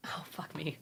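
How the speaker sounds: breathless under-the-breath swear; whispered curse. Real, not acted. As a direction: mutter it to yourself. Drawing goes wrong.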